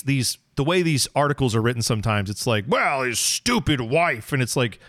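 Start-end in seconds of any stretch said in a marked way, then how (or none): 2.7-4.3 slow, drawn-out mock grumble; dismissive attitude. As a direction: imitate a sneering critic, stretching the words. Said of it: "that's the attitude".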